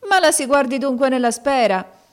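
high and loud, mocking; ironic command. A narrator's reading. Maid mocking the girl at the mirror, ironic. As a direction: order her to the mirror with scorn. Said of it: "rispose ironicamente la donna".

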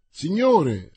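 loud, high answering call; voice from underground. A narrator's reading. Servant answering his master from the cellar, distant shouted reply. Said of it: "una voce che sembrava scaturisse dalle viscere della terra".

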